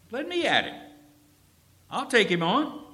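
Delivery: high, loud, bursting to fight; fired-up youngster itching to go; eager boast. Retold or imitated. Young David insisting to soldiers he'll fight Goliath, fired-up boast.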